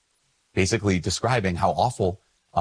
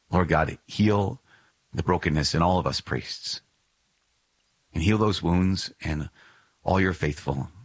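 prayer; 2 semitones lower than usual. Acted.

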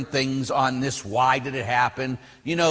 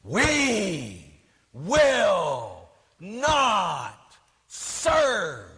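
slow defiant proclamation, drawn out and raised; defiant nun; 4 semitones higher, much slower than usual. Retold or imitated. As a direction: proclaim it like a rebel at a podium. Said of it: "she's pounding on the podium".

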